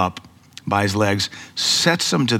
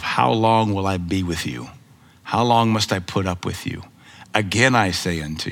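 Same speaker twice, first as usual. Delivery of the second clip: weary Jesus; 3 semitones lower than usual. Retold or imitated. Jesus tells his twelve disciples, lightly voiced and weary. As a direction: sigh it out like a tired teacher. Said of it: "Even Jesus Christ told his twelve".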